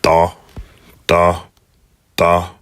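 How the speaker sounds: "da" with a plain d; d of dalit without dagesh. Shown as a demonstration. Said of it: "for the dalit".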